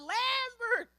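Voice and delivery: high mock scream of a name; mama screaming. Mother sheep calling her son from the wolf, high mock scream. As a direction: cry out for your child.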